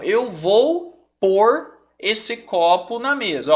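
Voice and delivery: slow, drawn-out demo of "eu vou pôr esse copo na mesa"; slow example sentence. Shown as a demonstration. Teacher to students, giving a slow, clear example. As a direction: spell the sentence out slowly for the class. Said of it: "É o sinônimo de colocar".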